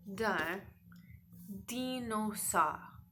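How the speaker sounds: slow, breathy reveal of the word; hushed dramatic reveal; suspense whisper. Shown as a demonstration. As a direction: whisper it like a secret. Teacher builds suspense on word.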